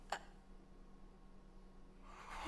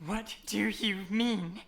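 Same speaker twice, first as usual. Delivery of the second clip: softer, slow, pointed repeat; quiet repeat; 2 semitones lower, 6 dB quieter, slower than usual. Acted. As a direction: ask again, quietly, letting it sink in. Repeats question, quieter and slower.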